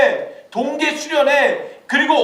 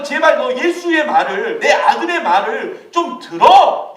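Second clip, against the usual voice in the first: God pleading; 3 dB louder, slower than usual. Retold or imitated. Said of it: "이렇게 얘기하시는 거예요".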